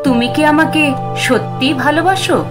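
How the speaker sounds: cool, high woman's voice; a ghostly woman asks, coolly and high; cool feminine voice. Acted. Ghost woman asks Arindam if he truly loves her, cool feminine voice. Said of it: "একটা শীতল মেয়েলি কণ্ঠস্বর".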